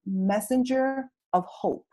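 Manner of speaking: slow, hushed inner voice of the heart; slow quiet whisper-like message from the heart. Retold or imitated. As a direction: say it softly like a voice heard within. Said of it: "this voice that I heard in my heart".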